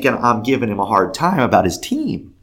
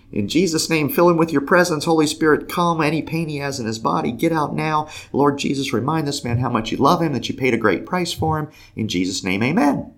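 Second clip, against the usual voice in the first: quick prayer; 5 semitones higher than usual. Retold or imitated.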